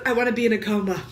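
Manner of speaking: the quote breaks into a laugh; giggling quote. Retold or imitated. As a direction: quote your friend while laughing. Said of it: "And she goes".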